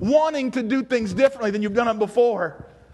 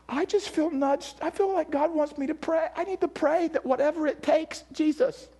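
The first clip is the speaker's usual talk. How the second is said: soft, higher, halting plea; imitated tearful prayer; 3 semitones higher, 5 dB quieter than usual. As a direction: gently act out a wife praying through tears. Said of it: "and she's bawling".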